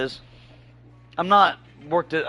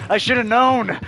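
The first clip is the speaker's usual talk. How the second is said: higher, louder self-scolding; exasperated; 5 semitones higher, 4 dB louder, slower than usual. Retold or imitated. Retelling his thought after the Tinder letdown, higher and louder. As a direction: groan it at yourself, fed up. Thinking after the OnlyFans ask.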